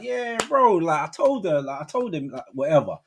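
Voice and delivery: loose chat starting high, easing down; casual mate chat. Shown as a demonstration. Friend gossiping to his mate, casual voice. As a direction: talk idly to a bro. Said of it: "I'll be talking to him, be like".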